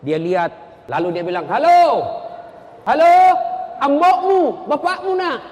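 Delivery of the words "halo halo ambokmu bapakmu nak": loud, higher hello down the line; calling into a phone. Acted. Old villager phoning his child, calling out loudly. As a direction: holler for whoever is on the other end.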